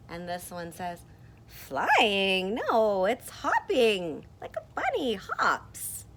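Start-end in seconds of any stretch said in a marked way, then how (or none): 1.5-6.0 loud, emphatic character voice; loud objection. Acted. Second character arguing it's a hopping bunny, loud objection. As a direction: contradict it loudly, stretching HOPPING. Other character disputes flying.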